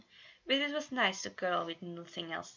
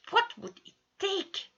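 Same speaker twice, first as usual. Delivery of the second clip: much higher, slow, sly voice; sly question; 13 semitones higher, 5 dB louder than usual. A narrator's reading. Janus probes the others, slow and high. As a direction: draw it out teasingly.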